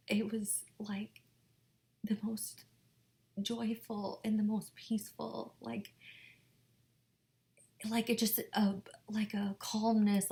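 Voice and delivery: soft hushed wonder; quiet reverent hush; awed whisper. Real, not acted. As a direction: whisper the peace you felt. Describing peace with Jesus.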